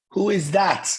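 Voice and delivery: high, pointed mock question; nosy questioning. Religious woman looking into the car, nosy questioning. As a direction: imitate a prying stranger, pitched high.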